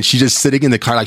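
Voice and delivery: normal talking voice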